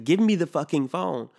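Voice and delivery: hammed-up insistence; impatiently demanding the phone from the salesman; mock demand.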